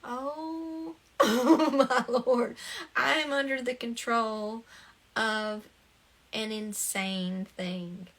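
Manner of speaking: a slow, laughing oh my Lord; laughing disbelief. Retold or imitated. Speaker recalls realizing an insane thing controlled her, laughing. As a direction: laugh it out at your own madness. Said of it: "And it was just like".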